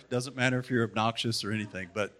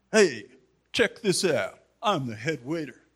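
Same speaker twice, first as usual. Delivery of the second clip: mock-boastful head waiter, louder and higher; proud and boastful; 4 semitones higher, 3 dB louder than usual. Show-off head waiter calling out at the fancy prom dinner, mock boastful. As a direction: strut it like an obnoxious show-off. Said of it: "being proud and loud and boastful and obnoxious".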